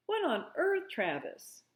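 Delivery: sharp high start, then drops; alarmed at the racket; startled. A narrator's reading. Mother calling out startled at the noise.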